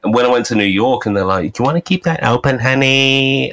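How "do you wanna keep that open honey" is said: higher, quick imitation of a flirty bartender; quick, higher-pitched mock sweet-talk. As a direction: lightly mimic a bartender sweet-talking a customer. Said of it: "not that they were hitting on me".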